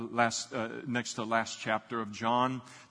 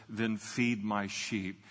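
slow gentle Jesus; slower than usual. Retold or imitated. Jesus telling Peter to feed his sheep, slow and gentle. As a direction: lay each word down slowly and tenderly.

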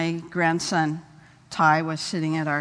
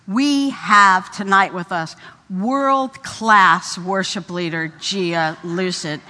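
slow, drawn-out emcee announcement; lightly mock a host building up her guest; grand introduction; 5 dB louder, slower than usual. Pastor's wife introducing the guest leader, slow and grand. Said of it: "And she said".

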